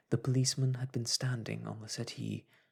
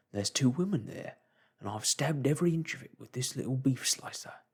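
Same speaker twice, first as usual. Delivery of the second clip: higher, louder rushed report; a touch of agitated barman; 4 semitones higher, 5 dB louder than usual. Acted. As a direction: report it breathlessly.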